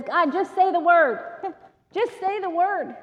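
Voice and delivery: a breaking laugh on the second "Just"; fervent prayer. Acted. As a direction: beg God to just say the word. Voicing a prayer of faith.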